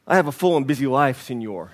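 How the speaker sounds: put-on a faint, half-hearted Mexican accent that barely lands; hint at a Mexican fisherman, then let it slip; attempted Mexican accent. Preacher voicing the contented Mexican fisherman in a faint Mexican accent. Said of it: "I was gonna do that in a Mexican accent".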